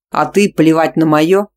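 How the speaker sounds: loud, slow retort; angry. Acted. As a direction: hit back hard. Heroine retorts.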